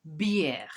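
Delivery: "Bière" with the è read as "air"; French bière. Shown as a demonstration. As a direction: stretch the "air" sound in "Bière". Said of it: "That accent there helps us to read it as air".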